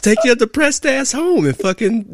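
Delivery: high, loud, exasperated telling-off; retold angry rant. Officer tells off the cop's colleague, loudly exasperated. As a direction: let the indignation ride up loud.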